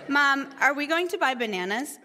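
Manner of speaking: lightly voiced insistent child; pestering kid. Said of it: "my kids talk a lot".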